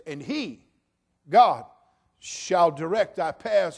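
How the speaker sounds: loud, emphatic sermon delivery; preaching at full force. Acted. Pastor preaching to the congregation about God's perfection, loud and emphatic. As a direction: proclaim it to the whole congregation.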